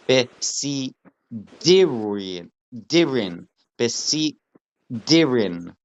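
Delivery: besidirin slowly split, pausing before a firm D in dirin; emphasis on the dalid. Shown as a demonstration. Teacher working out a word with dagesh, besidirin with a stressed D. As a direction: break besidirin after besi and lean on the D. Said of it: "The emphasis is on the dalid".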